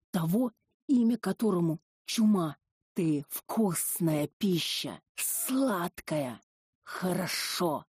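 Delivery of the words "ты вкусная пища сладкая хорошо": drawn-out, hungry demon purring; slow possessing-spirit voice; slow creature voice. Acted. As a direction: savour each word like a predator. Possessed Dosya speaks to heroine.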